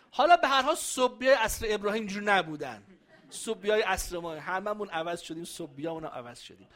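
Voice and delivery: words loud and broken by real laughter; laughing through a joke to the room; laughing while talking. Real, not acted. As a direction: speak through a laugh at your own joke. Jokes about goldsmith Sabians, laughing.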